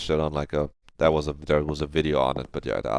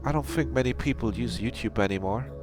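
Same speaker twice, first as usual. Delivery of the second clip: high-voiced game character; 9 semitones higher than usual.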